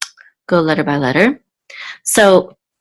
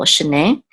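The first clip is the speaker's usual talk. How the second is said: shene with the weight on -ne; stress on the last syllable. Shown as a demonstration. Teacher showing the stress of shene. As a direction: land on the end of shene. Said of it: "the accent on the last syllable".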